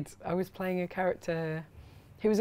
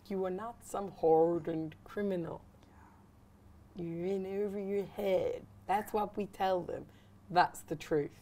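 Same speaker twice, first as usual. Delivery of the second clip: put-on a calmer, slower Philadelphia accent read; slower than usual. Actress reads the Breaking Bad line in Philadelphia accent. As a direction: deliver the whole line in Philadelphia accent, measured. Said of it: "You've mastered Philadelphia Man".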